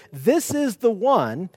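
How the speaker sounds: slow, weighty THIS IS THE ONE; "This is the one", stretched slowly for emphasis; very emphatic. Shown as a demonstration. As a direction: draw out "This is the one" with deliberate emphasis. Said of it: "it's very emphatic".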